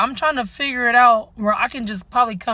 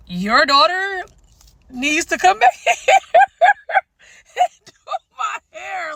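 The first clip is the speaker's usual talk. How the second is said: mocking mom voice; 7 semitones higher than usual. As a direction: lightly mimic the pleading mom. Mocking the mom's request.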